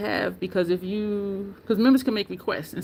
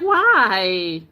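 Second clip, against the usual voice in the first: disgusted refusal; 6 dB louder than usual. Retold or imitated. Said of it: "I'm like".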